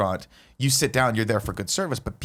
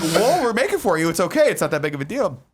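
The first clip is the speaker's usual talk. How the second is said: laughing waitress quote; 6 semitones higher than usual. Retold or imitated.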